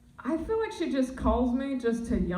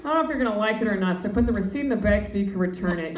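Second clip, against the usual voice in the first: fussy mom; much faster than usual. Retold or imitated. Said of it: "She's, she's like".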